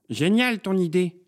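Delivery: high, drawn-out character voice; enthusiastic neighbour. A narrator's reading. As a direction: gush over the idea. Neighbour voiced reacting to the idea.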